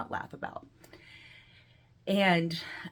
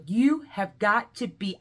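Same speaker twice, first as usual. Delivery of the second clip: slow, loud, higher disbelief; retold shock; 4 semitones higher, 5 dB louder, slower than usual. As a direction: stretch it out in mock shock. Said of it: "I was so, like, shocked".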